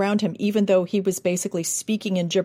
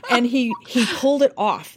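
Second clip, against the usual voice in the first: laughing; 4 semitones higher than usual. Real, not acted. Laughs while telling.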